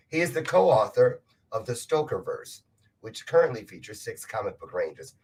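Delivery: short of breath with a cold; breathless from a head cold. Real, not acted. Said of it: "running out of breath because of this cold".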